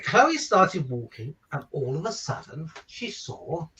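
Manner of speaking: hushed build-up to the big reveal; story reading. A narrator's reading. Father reading to children, hushing for the lion reveal. Reads a picture book aloud.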